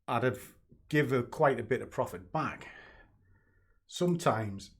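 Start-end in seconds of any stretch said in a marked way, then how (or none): 3.9-4.7 breathless, catching his breath. Real, not acted. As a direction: gasp the word between breaths. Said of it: "catching my breath a bit".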